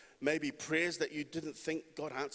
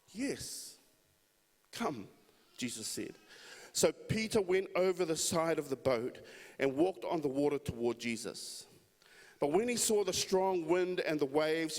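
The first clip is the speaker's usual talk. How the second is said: lively scripture read to the congregation. Acted. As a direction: read the passage with a preacher's lift. Reads scripture aloud to congregation.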